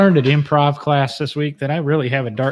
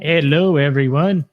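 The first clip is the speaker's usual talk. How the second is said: put-on Russian accent; 6 dB louder, slower than usual. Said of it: "Russian accent".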